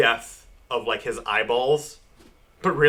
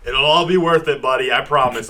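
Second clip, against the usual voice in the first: mock reassuring Fury; 5 dB louder than usual. Voicing Fury carving out eye.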